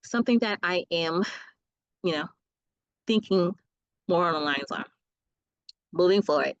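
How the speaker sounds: speaking with a dry mouth; parched, dry-mouthed talk. Real, not acted. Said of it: "my mouth is getting really dry".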